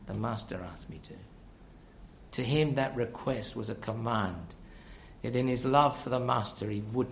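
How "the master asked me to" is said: soft, low, quicker repeat; humble reply. Acted. Preacher repeating the man's answer to the congregation, quiet humble reply. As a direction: repeat it quietly, pitched well down.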